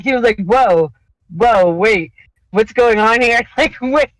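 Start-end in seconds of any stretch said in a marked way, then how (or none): 0.4-3.4 mock shock. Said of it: "he was shocked".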